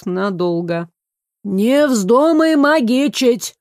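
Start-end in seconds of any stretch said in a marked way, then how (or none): 1.4-3.5 slow, stern master's warning. Acted. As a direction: warn him off, slowly. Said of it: "предупредил мастер".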